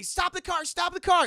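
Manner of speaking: high, loud frantic cries; hammed-up hysterical pleading; panic attack. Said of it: "starts having a panic attack".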